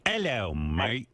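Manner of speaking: mock British greeting, drawn out slowly; hammed-up slow British hello; British accent. Shown as a demonstration. Host showing a reluctant guest British, drawled British accent. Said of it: "You can't do British?".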